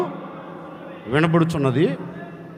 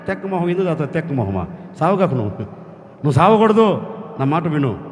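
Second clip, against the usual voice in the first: gentle as a man; 5 semitones lower than usual. Acted. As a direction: comfort her like a close friend. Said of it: "ఒక మనిషి ఎలా మాట్లాడుతున్నాడు". (దేవుడు రాహేలును మనిషిలా మృదువుగా ఓదార్చడం)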